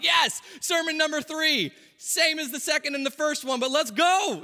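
rally yourself like a preacher ready to go; eager mock preacher. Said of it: "He's like".

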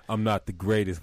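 loud mock quote of the ad; imitating clip voice. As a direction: parrot the clip line. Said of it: "that doesn't sound like me".

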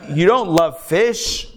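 slow, calm correction without anger; gentler retelling. Shown as a demonstration. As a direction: say it kindly this time, slowly. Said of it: "maybe he didn't say it so angrily".

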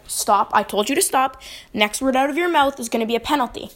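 retold stern warning; understated no-nonsense official. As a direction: firmly shut down an argument. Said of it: "being stern with him".

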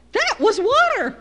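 high, loud, slow mock shock; sudden realization. Home from Russia, realizing the ice was water, mock shock. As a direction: let the truth dawn on you with a gasp.

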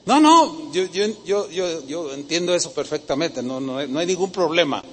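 imitando a un oyente desdeñoso. Retold or imitated. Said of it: "Algunos están así como".

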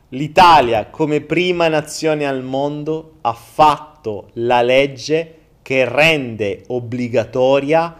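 slow, solemn town crier announcement. Acted. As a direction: proclaim it slowly like a herald.

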